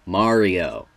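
Mario said slowly with an open AH; Italian pronunciation. Shown as a demonstration. Explaining the Italian way, Mario with a broad AH. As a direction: say Mario as MAH-ree-oh, the Italian way. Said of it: "Italian way of saying".

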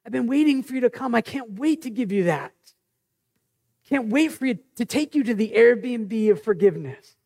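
lightly voiced God longing to welcome you; eager God. God welcoming the sinner back, eagerly. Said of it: "But instead, he's like".

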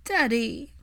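high, cracked little plea; broken child voice. Acted. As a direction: say it like a heartbroken boy. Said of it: "he sounded so broken".

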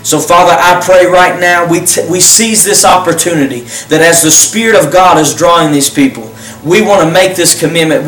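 earnest, unhurried prayer voice; leading a prayer. Acted. Pastor leading viewers in a salvation prayer, earnest and unhurried.

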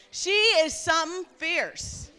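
"She is something fierce" with Newfoundland vowels, g dropped; Newfie, no ING. Shown as a demonstration. Preacher teaching women the saying, Newfie accent, loud. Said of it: "you gotta drop off the I N G".

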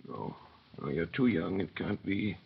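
dazed disbelief. Acted. Manette doubting, voice sinking.

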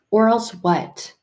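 challenging question. Shown as a demonstration. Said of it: "this or else kind of punishment".

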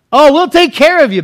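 high, loud mock reassurance; butter him up, pitched high; playful imitation of a persuader; acted coaxing.

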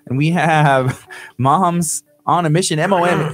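energetic station ID read; radio host opening. Acted. Opens the live radio show.

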